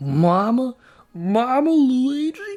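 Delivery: put-on Italian plumber voice. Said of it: "I can't do that Var-, Mario voice".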